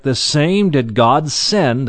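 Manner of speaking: slow, with weight on "same"; emphatic SAME. Acted. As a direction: stretch and stress "same" as the key word. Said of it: "again, there it's emphatic".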